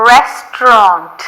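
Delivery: "Restaurant" said very slowly, each sound clear; teacher slows "Restaurant" for Tamil learners; careful restaurant. Shown as a demonstration. "Restaurant" மெதுவான உச்சரிப்பு. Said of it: "அதே மாதிரி இங்கிலீஷை pronounce பண்ணாதீங்க".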